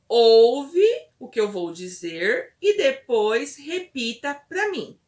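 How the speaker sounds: devagar, começando forte, subindo no fim; instrução à criança. Shown as a demonstration. Models instruction to the child. (instrução lenta para a criança ouvir e repetir)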